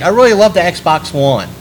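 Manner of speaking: put-on girlish enthusiasm; fake gamer girl. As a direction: mimic a fake gamer girl, pitch swooping down. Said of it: "fake, uh, gamer girls".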